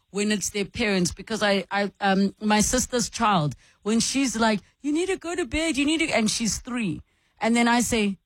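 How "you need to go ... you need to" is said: put-on a higher, insistent mother scolding a toddler; bossy mother. Host imitates her sister nagging her three-year-old to bed, bossy and higher. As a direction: nag the little one up to bed, rising at the end.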